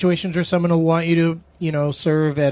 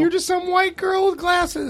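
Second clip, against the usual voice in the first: sassy imitation. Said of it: "In her head, she's like".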